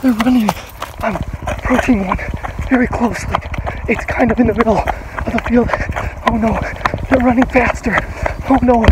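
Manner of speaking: loud, breathless excitement on the chase; excited calling out. Real, not acted. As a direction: call it out as you run after them. Chasing turkeys across a field.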